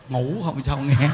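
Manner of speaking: lazy slow laughing answer; sleepy old woman. Retold or imitated. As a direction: answer as if half asleep. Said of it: "Sao vậy".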